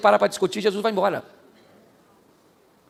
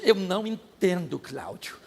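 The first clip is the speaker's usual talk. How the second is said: mild puzzled wife; 2 semitones lower, 4 dB quieter, slower than usual. Retold or imitated. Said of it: "ela falou comigo assim".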